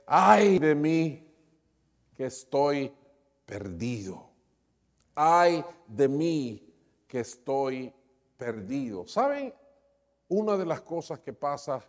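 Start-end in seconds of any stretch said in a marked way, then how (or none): 0.1-9.1 anguished cry. Retold or imitated. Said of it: "Entonces grité".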